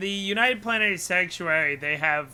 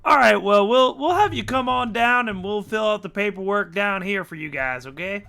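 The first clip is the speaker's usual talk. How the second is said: official guard; 4 semitones higher, 7 dB louder than usual. Acted. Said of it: "they unmute and they go".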